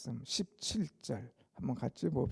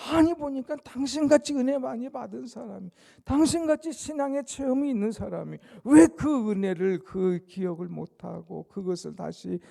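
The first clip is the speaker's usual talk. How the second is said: exasperated scolding; 6 semitones higher, 7 dB louder than usual. Acted. Imagined scolding of a believer.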